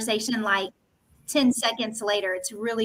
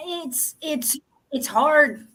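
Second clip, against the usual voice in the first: underwater; much slower than usual. Real, not acted. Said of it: "You sound like you're underwater".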